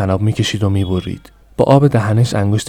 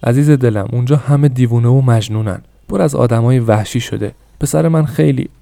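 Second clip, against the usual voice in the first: pleading mother; 2 semitones higher than usual. Acted. Mother at husband's feet begging for son, imploring.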